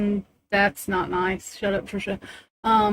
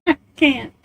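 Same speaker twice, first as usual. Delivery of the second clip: laughing; 4 semitones higher than usual. Real, not acted. Laughing fit.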